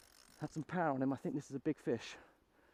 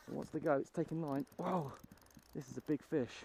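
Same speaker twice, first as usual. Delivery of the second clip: fighting a fish; 4 dB louder than usual. Real, not acted. Fighting a hooked salmon.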